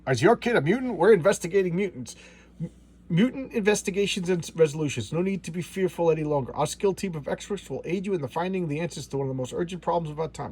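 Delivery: a slick, lightly hammed-up commercial announcer; mock TV ad voice. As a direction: sell it like a cheesy infomercial. Mock commercial pitch read.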